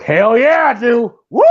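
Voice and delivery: playful hyped-up hollering; excited cheer. Acted. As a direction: answer like a thrilled fan, then whoop. Acts out answer to a flirty line.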